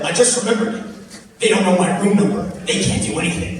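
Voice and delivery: put-on high, loud triumphant drunk; gloating drunk. Drunk guy back in front of the crowd, high loud gloat. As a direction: crow about the loophole.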